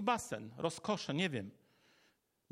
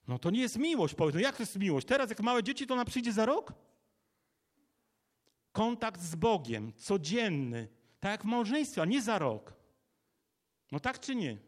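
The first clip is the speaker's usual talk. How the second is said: raised, challenging sermon voice; impassioned preaching; 3 semitones higher, 3 dB louder than usual. Real, not acted. Preacher challenging yearly contact with God, impassioned. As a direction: demand an answer from the congregation.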